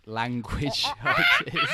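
loud, slow, breaking into laughter; laughing. Real, not acted. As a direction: push the words out through a laugh. Laughing while explaining.

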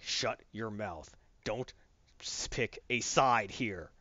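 low, slow, quiet menace; stern warning. Retold or imitated. Batman telling Superman to pick a side, low and stern. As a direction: warn him slowly, voice held down.

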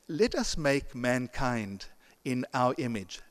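slow, "us" leaned on hard; stress on us. Shown as a demonstration. The preacher quotes God, stressing "us" slowly. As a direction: dwell on the word "us". Why the plural us.

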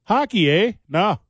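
a touch of hammed Canadian; Canadian accent. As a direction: play a hockey-loving Canadian. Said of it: "you got a Canadian accent".

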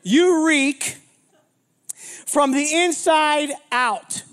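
high whoop then slow drawn-out line; hammed-up disgusted pastor; pastor's reaction. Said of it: "And he's like".

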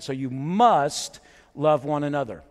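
"must" stretched out with a rise and fall; stress on must. Shown as a demonstration. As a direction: lean long and hard on "must". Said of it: "So you underline this word".

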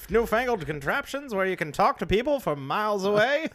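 lightly hammed-up old radio voice; 1950s announcer voice. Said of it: "nineteen fifties announcer voice".

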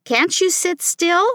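high, exasperated mother's question; exasperated yell. A narrator's reading. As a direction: scold with the pitch pushed up. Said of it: "yelled Mom".

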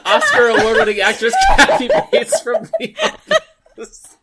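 emphatic build. Real, not acted. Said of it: "emphatic clarification".

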